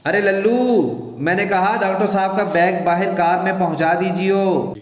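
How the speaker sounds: wife calling the servant from another room; calling out loudly. Acted. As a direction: call out to the servant Lallu, loudly. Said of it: "اونچی آواز سے اپنے ملازم کو بلاتی ہے".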